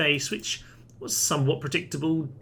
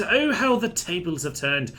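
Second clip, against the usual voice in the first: higher, louder theatrical crow, leaning on Oh; mock-triumphant villain crow, pitched up; hammed-up gloat; 6 semitones higher, 4 dB louder than usual. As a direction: crow it like a pantomime villain who finally won. Gloating as battle swings his way.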